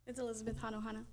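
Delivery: Hanohana said clearly as ha-no-ha-na; correct pronunciation. Shown as a demonstration. Parent correcting the chair on her name: Hanohana said clearly. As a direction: give Hanohana in full, four even syllables. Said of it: "I'm sorry if I mispronounced that".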